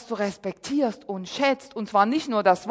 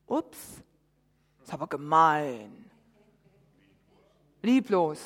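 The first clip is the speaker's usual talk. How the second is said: whispered "Ups", then lower mock-indignant aside; tongue-in-cheek remark to the congregation; mock shock; 7 semitones lower, 5 dB quieter, slower than usual. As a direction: play at being scandalised. Ironic aside on Jesus ignoring.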